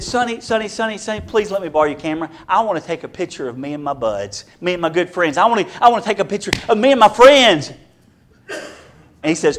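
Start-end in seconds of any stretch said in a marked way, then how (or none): 0.0-7.7 put-on begging kid. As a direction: beg sweetly for the camera. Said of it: "he said".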